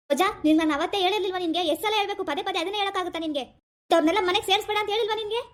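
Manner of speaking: heated rebuke in questions; angry scolding. Acted. Husband scolding Roja for letting them into the house, angry. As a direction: scold with rising exasperation. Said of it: "ಯಾಕಪ್ಪ ಹಂಗ್ ಕೋಪ ಮಾಡ್ಕೊಂಡಿ".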